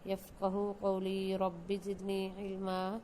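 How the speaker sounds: slow, measured chanted prayer; Quranic recitation. Acted. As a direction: recite the dua slowly and reverently. Opening Quranic dua recited. (آہستہ، ترتیل کے ساتھ دعا کی تلاوت)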